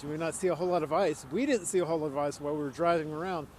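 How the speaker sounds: lips numb from the cold; words slurred by a frozen mouth. Real, not acted. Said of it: "My mouth is frozen".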